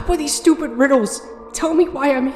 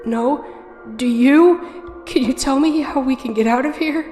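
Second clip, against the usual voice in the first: scared pleading; 6 semitones higher, 6 dB louder than usual. Acted. Frightened girl pleads with ferryman.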